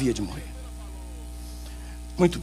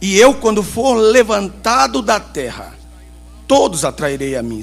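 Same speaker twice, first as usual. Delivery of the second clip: slow, louder proclaiming prophet; 3 semitones higher, 5 dB louder than usual. Shown as a demonstration. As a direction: declaim it like a stern prophet. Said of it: "aquela voz de profeta".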